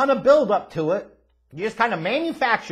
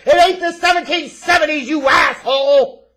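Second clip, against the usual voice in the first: yelled insult, louder and higher; a furious outburst at the wrestler; angry shout; 6 semitones higher, 7 dB louder than usual. Real, not acted. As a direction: bark it out in real outrage. Ranting at wrestler Cody's promo.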